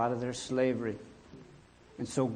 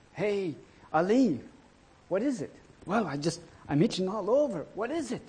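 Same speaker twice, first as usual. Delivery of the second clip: higher-voiced, puzzled complaint; itching villager; 5 semitones higher than usual. Man asking his friend about the itch, acted puzzlement. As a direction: act out someone bothered by an itch.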